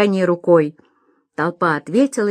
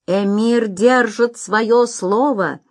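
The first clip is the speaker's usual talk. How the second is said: shouted; 3 semitones higher, slower than usual. Acted. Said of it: "закричал Бахтияр".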